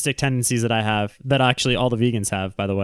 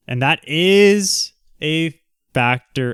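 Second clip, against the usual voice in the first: Southern-ish drawl; 2 semitones higher, much slower than usual. Real, not acted. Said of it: "That wasn't a Southern accent".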